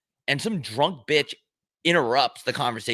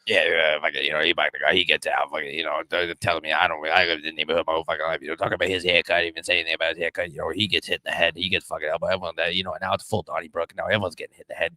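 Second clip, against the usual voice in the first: Boston tough guy; 6 semitones lower, faster than usual. Acted. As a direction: lower Boston accent, a cursing bar-fight story. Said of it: "That's Boston".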